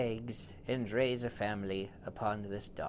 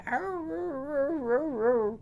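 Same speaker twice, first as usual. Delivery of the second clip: very high, loud yelp; high loud dog cry of pain; 5 dB louder than usual. Acted. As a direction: yelp like a hurt puppy. Dog yelps again.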